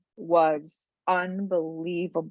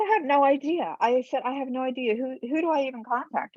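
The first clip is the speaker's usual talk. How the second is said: higher-pitched clueless reply; mildly flustered, higher voice; retold helpless protest; 5 semitones higher, faster than usual. Writer telling the woman she has no idea, helpless.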